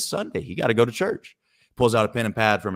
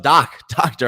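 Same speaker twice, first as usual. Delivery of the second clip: mock shout up; 4 semitones higher, 6 dB louder, slower than usual. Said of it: "He shouts up".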